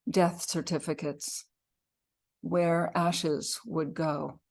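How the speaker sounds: measured poetry reading with pauses between phrases; poem reading. Acted. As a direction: read an elegy line by line, leaving space. Reads own poem aloud.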